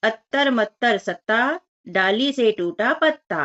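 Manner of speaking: put-on slow rhyme read to children; sing-song rhyme reading. Shown as a demonstration. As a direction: read the rhyme slowly, like a chant. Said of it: "वाक्य पढ़े और लिखे".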